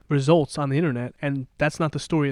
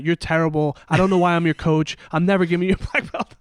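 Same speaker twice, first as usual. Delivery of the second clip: a touch louder, playful berating; mock screaming coach; 3 dB louder than usual. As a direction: imitate a coach chewing out a student. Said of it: "He'd just be screaming out".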